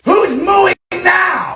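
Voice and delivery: taunting voice. Acted. Cook taunting the ground beef, slow silly gloating shout.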